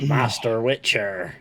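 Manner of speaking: slow West Country bumpkin greeting; mock rural West Country accent, slowly. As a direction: draw it out like a West Country villager. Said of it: "stereotypical country bumpkin accent".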